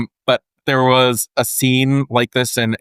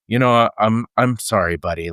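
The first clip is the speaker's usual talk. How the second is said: soft apology. Retold or imitated. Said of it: "like this".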